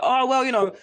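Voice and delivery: put-on high breezy casual teen voice; nonchalant teen. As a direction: toss it off like nothing happened. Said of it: "And he's like".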